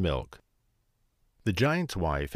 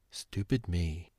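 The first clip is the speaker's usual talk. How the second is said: slow, softer self-blaming mutter; 6 dB quieter than usual. A narrator's reading. Jack blaming himself, soft slow mutter. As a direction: mumble it, disappointed in yourself. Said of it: "he muttered".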